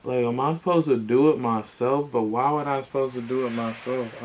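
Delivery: loud, baffled protest that eases off; confused and annoyed. Real, not acted. Customer questioning why he must fix it himself, confused and annoyed. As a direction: demand an answer, baffled. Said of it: "I'm so freaking confused".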